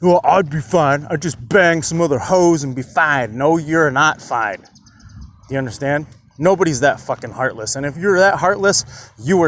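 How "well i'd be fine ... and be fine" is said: careless macho bravado; mock tough guy. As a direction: brush it off like a player. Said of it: "Nobody's like".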